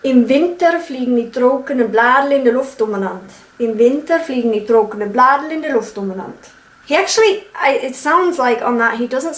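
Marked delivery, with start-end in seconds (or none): 0.0-3.3 Bavarian accent. Shown as a demonstration. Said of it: "So, my turn". 3.6-6.5 Bavarian accent. Shown as a demonstration. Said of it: "So, my turn".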